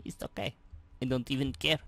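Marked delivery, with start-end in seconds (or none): 0.0-0.5 whisper. Real, not acted. Whispered take.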